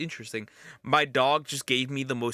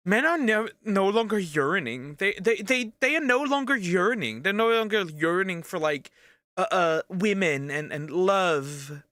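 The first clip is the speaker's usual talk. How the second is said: high, mocking voice for women complaining; a mock lament that men no longer yearn; mock whiny woman; 5 semitones higher than usual. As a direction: parody women lamenting, pitched up. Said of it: "Women are like".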